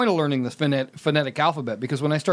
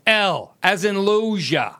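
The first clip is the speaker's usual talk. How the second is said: retold spelling out; 2 semitones higher, much slower than usual. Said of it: "and he's going".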